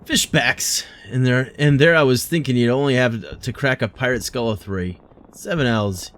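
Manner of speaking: lightly voiced hearty old sailor, a touch of British; gruff guild master. Streamer voicing guild master greeting the adventurer, lightly gruff. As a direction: read it like a bluff harbour guild boss, lightly.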